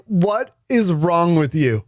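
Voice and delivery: slow, drawn-out disbelief; retold incredulous scolding; exasperated scolding. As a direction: stretch it out in mock exasperation. Acted scolding of partner.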